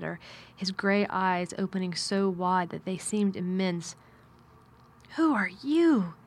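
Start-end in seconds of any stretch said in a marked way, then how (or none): 5.2-6.1 higher-pitched, mildly frightened question, voiced; mock half-frightened, without a real whisper. A narrator's reading. Boy to a stranger at his bedside, half-frightened. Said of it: "in a half-frightened whisper".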